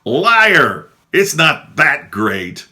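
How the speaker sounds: loud, high mock heckle; heckling nun. Nun heckling the speaker from the front row, loud and high. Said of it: "I hear a female voice go".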